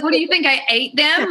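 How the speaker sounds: high sarcastic retort; acted exasperation. Acted quarrel over the dogs.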